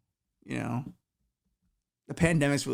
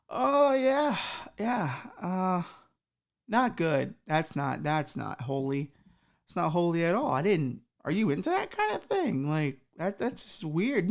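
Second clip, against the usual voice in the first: awkward Satan; 4 semitones higher than usual. Acted. Satan reacts to the confession.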